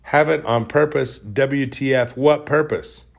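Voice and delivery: baffled outrage at the message; indignant. Retold or imitated. Rereads the text indignantly.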